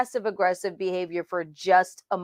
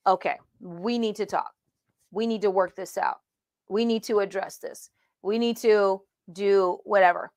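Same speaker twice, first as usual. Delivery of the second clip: quieter, measured, sincere; calm, honest talk; 3 semitones lower, 3 dB quieter than usual. Retold or imitated. Mentor calmly asking a mentee to talk it out, quietly sincere. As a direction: gently open the hard conversation. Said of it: "who can't say".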